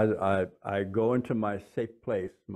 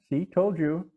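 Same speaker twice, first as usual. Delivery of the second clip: voice in my head; 7 semitones higher, 3 dB louder than usual. Retold or imitated. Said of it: "a little voice in my head went".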